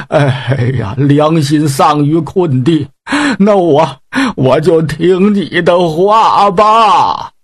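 slow, beaten-down surrender; defeated pig demon, slow. Acted. Pig demon gives in to Yang Jian, slow and defeated. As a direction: give in with a heavy heart.

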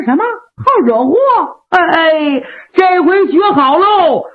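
a cocky warrior calling his bluff; brash Meng Liang. Acted.

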